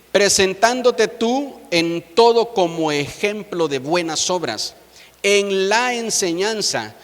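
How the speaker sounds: slow, emphatic Bible reading; scripture reading. Acted. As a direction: read the verse out slowly, phrase by phrase. (lectura bíblica pausada y enfática)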